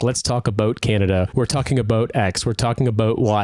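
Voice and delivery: imitating a Canadian podcast host, leaning on "about"; mock Canadian accent with rounded "about"; Canadian host impression, conversational; prominent Canadian accent. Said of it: "very, to me, prominent Canadian ac".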